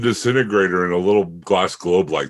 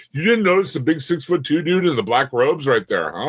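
incredulous; 5 semitones higher than usual. Acted. Sarcastic question to oblivious characters.

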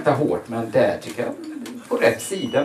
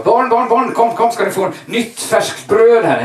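put-on loud, higher call to the kids; 8 semitones higher, 7 dB louder than usual. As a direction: shout them over to the fresh bread. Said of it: "Och så ropade jag så". (pappa ropar glatt och högt på barnen)

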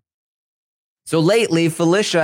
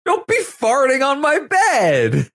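mock Cirie scolding; 13 semitones higher, much slower than usual. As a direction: play Cirie shouting at Felicia to stop. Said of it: "Cirie's been like".

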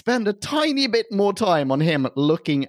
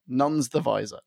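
tipsy slurred flub; words tripping from a few drinks. Real, not acted. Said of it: "I am tipsy as".

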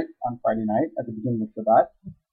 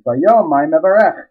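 slow emphatic question; 3 semitones higher, 7 dB louder, slower than usual. Shown as a demonstration.

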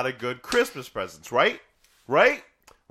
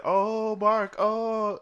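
lightly voiced mother; 8 semitones higher, much slower than usual. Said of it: "she said".

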